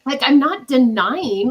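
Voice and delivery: slow, loud, indignant "I'm not denying"; emphatic denial. Real, not acted. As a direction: stress "not" and "denying", drawn out. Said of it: "that word upset me".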